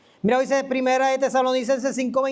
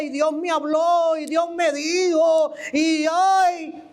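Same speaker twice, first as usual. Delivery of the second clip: mock-solemn, higher preacher voice drawn out slowly; 4 semitones higher, slower than usual. A preacher mocked to the congregation, higher and slow. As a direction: send up a preacher claiming God spoke to him.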